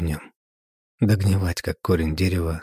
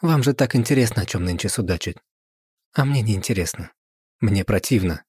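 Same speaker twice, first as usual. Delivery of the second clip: disgusted; 3 semitones higher than usual. Acted. Wife's parting disgusted words.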